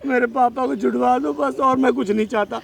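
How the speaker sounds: tearful pleading; weepy, desperate plea; acted crying. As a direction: beg for your father through tears. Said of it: "तो तुम क्यों रो रहे हो फिर".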